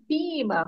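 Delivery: "prima" said without the r, like "pima"; pet-name pronunciation. Retold or imitated. Son greeting his cousin by their pet name, pet-name pronunciation. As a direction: drop the r in "prima", as a nickname. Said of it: "porque eles se tratavam assim".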